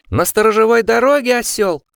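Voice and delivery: loud, high shrieking demand; shrieking insult. A narrator's reading. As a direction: scream it at the fool. Osmond insults Steven.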